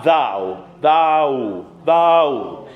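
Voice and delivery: "thou" drawn out on an even ah; evened-out vowel. Shown as a demonstration. Choir leader drilling the choir's vowel, evened out. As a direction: repeat "thou" as one stretched, open vowel. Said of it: "If you're just evening these out".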